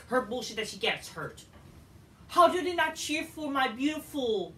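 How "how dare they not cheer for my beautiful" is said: sarcastic rant. Real, not acted.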